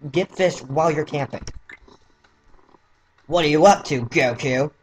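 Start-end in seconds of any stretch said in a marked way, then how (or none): 3.3-4.7 lightly voiced Krillin, close to own voice; a first, plain try at Krillin; rejected first Krillin voice. Shown as a demonstration. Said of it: "Nah, I don't like that voice".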